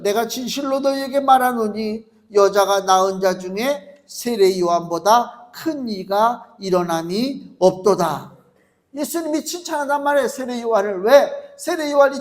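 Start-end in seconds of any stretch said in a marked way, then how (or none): 0.0-8.4 solemn, slowing proclamation of the verse; scripture reading. Acted. Preacher proclaiming the verse to his congregation, solemn. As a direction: proclaim it like holy words.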